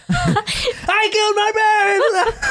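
shrieked high and slow through laughter; high screaming laugh. Retold or imitated. Retelling a killer's confession, high laughing scream. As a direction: scream it, cracking up. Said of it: "why are you screaming?".

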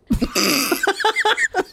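helpless high laugh at the text; burst of laughter. Real, not acted. Reader cracks up at the crude line, laughing.

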